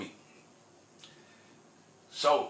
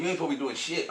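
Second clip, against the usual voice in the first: insistent woman; 6 semitones higher, faster than usual. Retold or imitated. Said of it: "She said".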